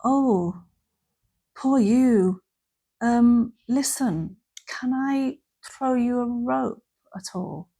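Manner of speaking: gentle, slow offer of help; kindly but a bit detached; sympathetic. Shown as a demonstration. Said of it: "sympathy would be".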